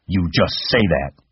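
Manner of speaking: sharp scolding aunt. Acted. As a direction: cut him off sharply. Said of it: "she said sharply".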